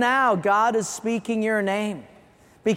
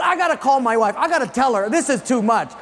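excited officer; 3 semitones higher, 3 dB louder, faster than usual. Retold or imitated. Starstruck officer wants to tell wife.

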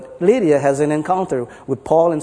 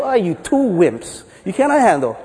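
light mock scorn, pidgin; Portuguese guy. Portuguese guy mocking the other two, light scorn. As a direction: tease them lightly. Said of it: "So the Portuguese guy go".

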